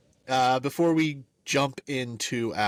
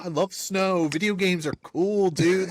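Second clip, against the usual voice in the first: higher, spaced-out enthusiasm; mock carefree post-game gushing; giddy player impression; 6 semitones higher than usual. Podcaster imitating the quarterback's happy post-game interview, giddy. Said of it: "But this time he's like".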